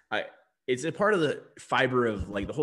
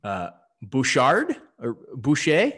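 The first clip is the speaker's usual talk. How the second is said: put-on French accent; 2 semitones higher, 4 dB louder than usual. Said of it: "I'm gonna try this in a French accent".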